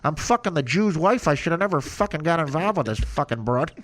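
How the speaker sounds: tough-guy Chicago mob voice; Chicago mob accent. Retold or imitated. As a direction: growl it like a Midwest mobster. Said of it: "the casino accent that Joe Pesci does".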